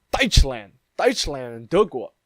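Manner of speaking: "Deutschland" and "德国" set side by side; comparing sounds. Shown as a demonstration. The vlogger showing "Deutschland" and "德国" sound alike. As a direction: say "Deutschland" then "德国" so they match. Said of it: "That sounds a lot more similar".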